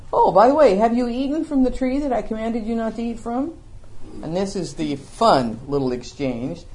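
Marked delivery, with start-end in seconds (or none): 0.1-3.5 understatement. Retold or imitated. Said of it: "classic understatement".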